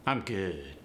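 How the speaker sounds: AAVE accent, resonance forward and up; rhythmic AAVE delivery, placed forward. Shown as a demonstration. Teacher showing how it sounds in the dialect, AAVE. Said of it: "it's gonna sound more like".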